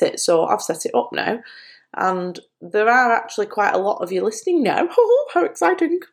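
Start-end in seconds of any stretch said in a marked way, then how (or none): 5.1-6.0 laughing. Real, not acted. Laughing at her listener count.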